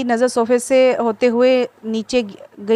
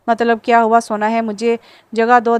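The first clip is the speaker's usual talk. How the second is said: angry. Acted. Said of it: "दानी ने गुस्से से कहा".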